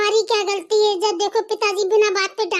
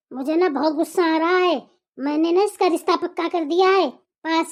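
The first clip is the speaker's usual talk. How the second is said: much lower father's voice announcing the match; gruff father; 4 semitones lower than usual. Acted. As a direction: speak as the head of the house who has settled the marriage.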